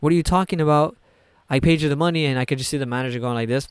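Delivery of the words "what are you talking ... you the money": imitating an indignant customer, pitched higher; mildly heated retold protest; arguing. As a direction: protest as if wrongly accused. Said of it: "he's arguing to the manager in Dutch".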